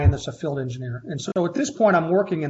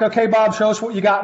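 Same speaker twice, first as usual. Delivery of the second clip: retold expectant demand; 6 semitones higher, 6 dB louder than usual. Bosses calling for his model.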